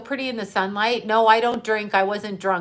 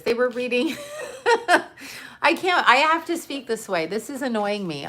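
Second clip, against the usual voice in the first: giggling through the words, pitch jumping up; laughing; 3 semitones higher than usual. Real, not acted. To viewers while dodging a banned topic, laughing. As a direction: laugh it off while trying to talk around the topic.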